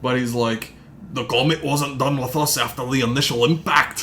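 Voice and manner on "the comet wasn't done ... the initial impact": a hammed-up Scottish narrator accent; mock Scottish accent. Podcaster imitating the movie's Scottish narrator. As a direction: do Gerard Butler's Scottish narration badly. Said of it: "he just keeps his Scottish accent".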